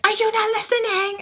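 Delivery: high, annoyed quoted father; imitating her father's snap at her; mock irritated dad. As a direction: play the impatient dad.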